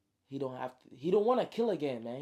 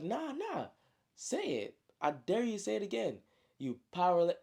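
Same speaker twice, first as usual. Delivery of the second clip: sharp high challenge, pitch well up; angry dare; 5 semitones higher than usual. Retold or imitated. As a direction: goad him, voice pitched high. Enraged brother repeats dare.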